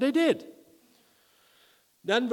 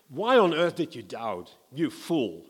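mild frustration; 4 dB louder than usual. Shown as a demonstration. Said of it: "in anger or frustration".

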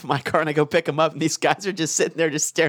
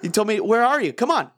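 higher-pitched mock nagging, building; mildly exasperated imitation; retold rising impatience; 4 semitones higher, faster than usual. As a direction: replay a friend's increasingly impatient voicemail. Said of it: "I loved how you went from".

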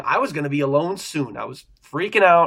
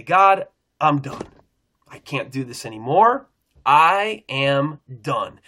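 slow, heavy and a bit louder, giving up; crying out to God; 3 dB louder, slower than usual. Retold or imitated. Retelling his prayer at work, a slow, worn-out cry. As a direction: let each word drop like you have had it. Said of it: "I cry out to God".

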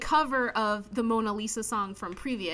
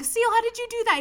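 high, louder astonished question; mock amazement; 11 semitones higher, 5 dB louder, faster than usual. Onlookers amazed by the wolf fighter, high mock amazement. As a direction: ask it in pretend awe.

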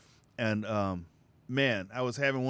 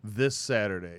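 monster truck ad. Pretend. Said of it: "the monster truck voice like I'm doing here".

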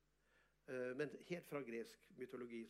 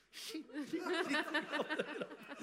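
laughing exclamation; 14 semitones higher, 8 dB louder, much slower than usual. Real, not acted. Gleeful at the huge sum.

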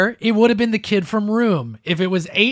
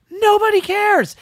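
much higher, slow and loud; exasperated; 12 semitones higher, 4 dB louder than usual. Real, not acted. Host ranting that nobody reads the article, loud and high. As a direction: spit it out in disbelief.

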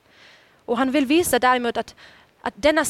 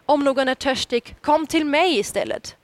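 called out; 3 semitones higher than usual. Acted. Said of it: "så ropar Jesus ut".

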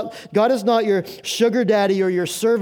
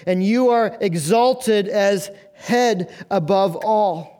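scripture reading. Acted. Reads scripture verse aloud.

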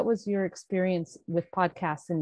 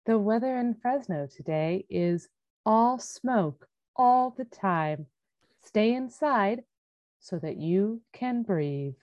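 public radio host; 2 semitones higher than usual. Pretend. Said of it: "you sound like an Alexa took a Xanax".

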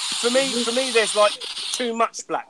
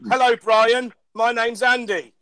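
British speaker's weak American accent; louder, badly faked American; attempted American accent; 3 dB louder, slower than usual. Shown as a demonstration. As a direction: have a go at sounding American. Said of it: "I can do an American accent".

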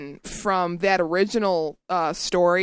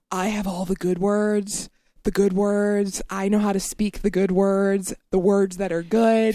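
measured, repetitive politician impression; lightly voiced boastful president; a hint of a self-satisfied politician; Donald Trump. Shown as a demonstration. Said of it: "Donald Trump would be like".

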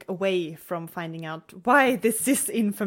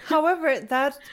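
laughing through the words; giggling while agreeing; 8 semitones higher, 3 dB louder than usual. Real, not acted. Laughing at the film.

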